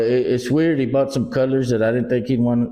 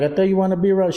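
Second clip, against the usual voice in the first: heated argument; 8 semitones higher, faster than usual. Retold or imitated. Retold argument with wife.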